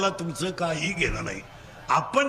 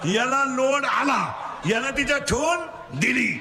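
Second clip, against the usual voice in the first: call-and-response preaching; 5 semitones higher than usual. Real, not acted. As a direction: leave the end rising for them to finish. Call and response story with children. (पोरांकडून वदवून घेणारा चढा सूर)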